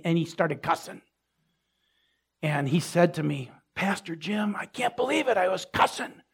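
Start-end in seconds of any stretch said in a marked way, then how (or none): 3.7-6.2 mildly dismayed, higher-pitched confession; upset with himself. Retold or imitated. Man confessing his cussing to his pastor, mildly dismayed. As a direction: imitate a man let down by himself, voice raised in pitch. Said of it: "he was so down on himself".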